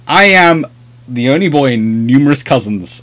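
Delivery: ordinary talk, nothing marked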